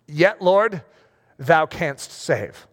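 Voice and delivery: drawn-out, reverent plea; slow King James prayer; slow solemn prayer. Shown as a demonstration. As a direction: pray it slowly, weighing each word. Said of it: "That was their prayer".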